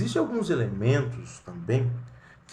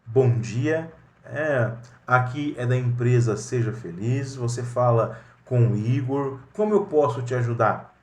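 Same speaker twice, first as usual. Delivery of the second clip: courteous receptionist answering a call; professional phone greeting. Shown as a demonstration. Igor answering a client's call at Seja Feliz, courteous and professional. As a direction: greet the caller politely and crisply, ready to help. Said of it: "como que deve ser o processo adequado?".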